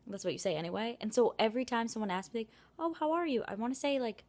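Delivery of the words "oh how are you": lightly mimicked small talk; higher-pitched singsong how-are-you; imitated greeting. Acting out someone's greeting.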